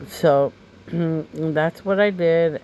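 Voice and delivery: throat-clearing, allergy-scratchy voice; talking through a scratchy throat. Real, not acted. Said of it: "I keep coughing and scratching my throat".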